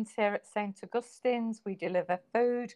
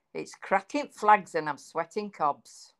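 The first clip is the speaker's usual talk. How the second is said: Mancunian accent; 3 semitones lower, 3 dB louder than usual. Shown as a demonstration. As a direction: show off a Manchester dialect saying. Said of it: "illustrates your accent".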